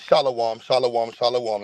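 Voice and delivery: low, calm holy-man voice; mock pious preacher. Streamer pretending to calm himself for viewers, mock pious. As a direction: play a gentle preacher to cool down. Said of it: "Let me bring it back, y'all".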